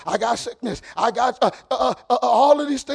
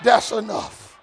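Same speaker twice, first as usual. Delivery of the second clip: put-on old preacher; slower than usual. Preacher finishing his imitation for the congregation, old-preacher refrain. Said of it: "that old preacher's like".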